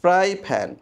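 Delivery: ফ্রাই with teeth-on-lip F, প্যান with both lips; F versus P. Shown as a demonstration. Teacher showing the difference in one phrase, careful F and P demo. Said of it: "দুটোর মধ্যে পার্থক্য কি?".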